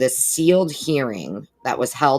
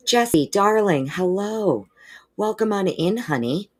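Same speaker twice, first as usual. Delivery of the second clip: much higher, slow, doting hello; cooing welcome; 8 semitones higher than usual. Real, not acted. Host welcomes a favourite viewer, cooing.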